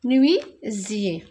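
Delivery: menuisier again slowly, falling at the end; slow repeat. Shown as a demonstration. Teacher repeating menuisier slowly to confirm it. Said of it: "teacher repeats word".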